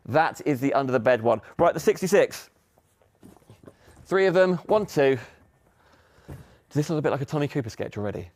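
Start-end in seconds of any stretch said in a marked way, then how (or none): 4.0-8.3 breathless from lifting boxes; puffing between words; out of breath. Real, not acted. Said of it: "Why am I out of breath?".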